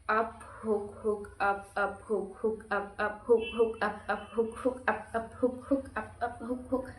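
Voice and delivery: rhythmic call of punches, one after another; quick, steady call of each punch in a workout combo; calling boxing combos. Shown as a demonstration. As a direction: count the punches out like a drill. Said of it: "जितना speed में मैंने बोला".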